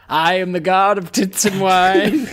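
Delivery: grand, slow mock-British declaration; Tyrion. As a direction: proclaim it slowly in a half-hearted character accent. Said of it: "I don't think I got a Tyrion in me".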